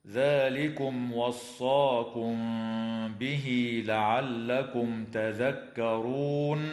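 slow melodic tajweed; Quran recitation. Shown as a demonstration. Sheikh recites the verse's end for listeners, slow chant. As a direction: chant the verse slowly and evenly.

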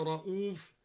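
رؤوف said ra'uf with a short vowel after the hamza. Shown as a demonstration. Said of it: "وقصر الهمزة".

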